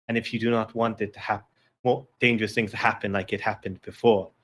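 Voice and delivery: low, measured voice of warning; mysterious feminine voice. Acted. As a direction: speak as a solemn disembodied voice. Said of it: "this feminine voice that's over, says".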